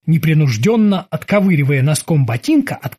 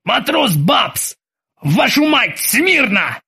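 contained version of a captain's roar; Ozzy bellowing; 7 semitones higher, much slower than usual. A narrator's reading. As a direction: order the sailor to attention, pitched up. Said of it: "заорал во всю силу своих лёгких".

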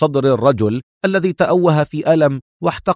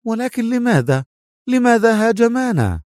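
much higher, startled woman; astonished; 10 semitones higher than usual. Acted. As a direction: ask in disbelief. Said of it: "قالت منى في دهشة". (دهشة بصوت مرتفع الطبقة)

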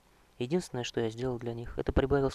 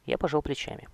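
ordinary delivery

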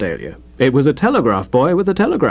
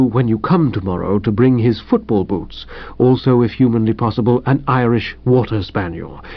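the valet dutifully restates the telegram; Jeeves repeating; 2 semitones lower than usual. Acted. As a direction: repeat it gravely, unruffled. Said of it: "As I interpret the document".

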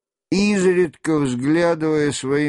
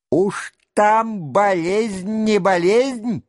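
bloodthirsty shout; 8 semitones higher than usual. A narrator's reading. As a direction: spit out the death threat. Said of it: "кровожадно прокричал Денисов".

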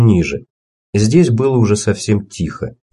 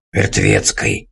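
low choked creak; strangled croak; 11 semitones lower, slower than usual. Acted. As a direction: croak it as if half-throttled. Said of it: "придушенным шёпотом проскрипел старик".

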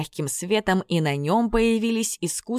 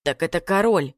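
surprised gasp. A narrator's reading. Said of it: "охнул Санька".

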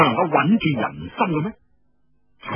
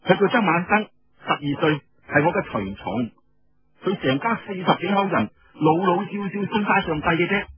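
put-on girlish sister voice; 4 semitones higher than usual. Sister introduces her attendant.

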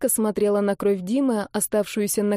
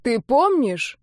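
крик; 4 semitones higher, 3 dB louder, slower than usual. A narrator's reading. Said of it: "закричал вдруг торопливо Андрей".

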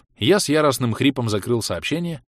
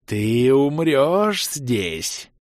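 bubbling chuckles; 2 semitones higher, much slower than usual. Acted. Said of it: "булькающими смешками".

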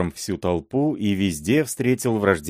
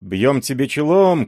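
higher, louder call; crowd shout; 6 semitones higher, 4 dB louder than usual. A narrator's reading. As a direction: hail him as a mob. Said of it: "кричали другие".

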